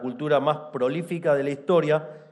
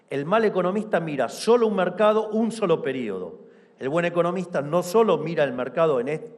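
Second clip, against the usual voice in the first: booming balcony speech; 3 semitones higher than usual. Real, not acted. Speech climax on good economist.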